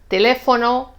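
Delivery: "teléfono" stressed on lé; stress on antepenultimate syllable. Shown as a demonstration. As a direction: lean on the lé of "teléfono". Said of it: "acento en la tercera sílaba por atrás".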